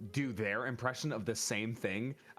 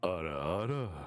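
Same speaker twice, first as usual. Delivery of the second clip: deep, low put-on voice from the chest; 6 semitones lower than usual. Asked which voice to do, the speaker gives the deeper voice. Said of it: "I like the deeper one".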